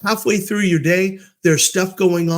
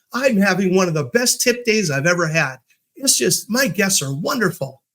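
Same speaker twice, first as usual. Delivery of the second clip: higher, gushing coworker voice; delighted bellman; 4 semitones higher than usual. Retold or imitated. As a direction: imitate someone thrilled with their job. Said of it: "having a wonderful day".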